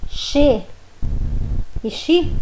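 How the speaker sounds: che and chi read as xe and xi; che e chi à portuguesa; wrong Portuguese reading. Shown as a demonstration. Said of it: "que todo mundo lê, como em português".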